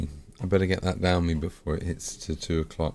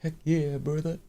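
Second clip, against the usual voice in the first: hyped; 11 semitones higher than usual. Acted. Hyped catchphrase, pitch jump.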